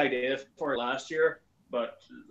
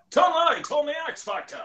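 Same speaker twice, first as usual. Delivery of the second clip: X Factor announcer, pitched way up; Peter Dixon; 12 semitones higher, 4 dB louder than usual. Acted. Showing the host the show's voice-over, big announcer voice. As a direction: announce the show with grand hammed-up showmanship. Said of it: "that guy from X Factor".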